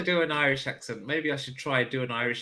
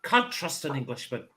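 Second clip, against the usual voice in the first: put-on accent slipping into Irish. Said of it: "That's Irish".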